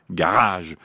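garage said slowly, stressed on the last syllable; final-syllable stress. Shown as a demonstration. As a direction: lean on the end of garage. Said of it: "La dernière syllabe est plus forte". (garage, accent sur la dernière syllabe)

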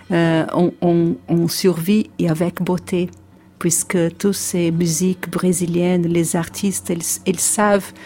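Brazilian accent in French; French with a Portuguese accent; foreign accent in french. Real, not acted. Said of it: "mon français c'est pas assez, assez bon pour ça".

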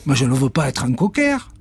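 aigu, refus; chat outré. Acted. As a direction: refuse net. Cat refuses. (le chat refuse d'être un cocker)

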